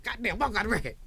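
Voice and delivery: reliving the thrill of a hit; excited. Retold or imitated. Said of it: "I was so excited".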